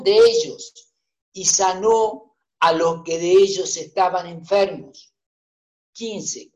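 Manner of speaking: measured, solemn Bible reading; scripture reading. Acted. Preacher reading Matthew aloud to the congregation, measured scripture reading. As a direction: read the gospel steadily to the church.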